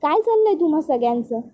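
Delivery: lightly voiced annoyed brother, rising on the pushback; a retold snap, mildly heated; irritated outburst. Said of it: "अभ्या चिडतो". (चिडलेला, हलका वैतागलेला आवाज)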